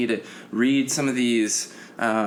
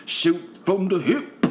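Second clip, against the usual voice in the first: playful repeat; 8 semitones higher than usual. Pretend.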